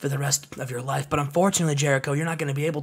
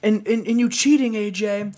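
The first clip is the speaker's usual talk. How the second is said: Billy Kidman voice; 6 semitones higher than usual. Retold or imitated. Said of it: "And he says".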